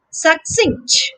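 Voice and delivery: succinct with the weight on CINCT; careful "succinct", second syllable stressed. Shown as a demonstration. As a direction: lean on the end, suc-CINCT. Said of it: "the stress is on the second syllable".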